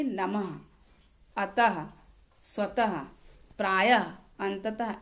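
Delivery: नमः, अतः, स्वतः, प्रायः, अंततः each closed with a breath of h; visarga as h. Shown as a demonstration. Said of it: "उच्चारण ह की तरह". (नमः, अतः, स्वतः, प्रायः, अंततः के अंत में विसर्ग को ह जैसा बोलें)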